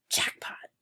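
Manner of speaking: hushed unvoiced whisper. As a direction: whisper it to your friend. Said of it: "I whispered to Drew".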